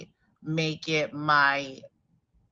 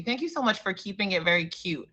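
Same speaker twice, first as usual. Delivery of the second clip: through a face mask; 3 semitones higher, 4 dB louder than usual. Real, not acted. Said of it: "with a mask on my face".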